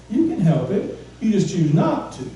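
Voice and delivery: usual speaking voice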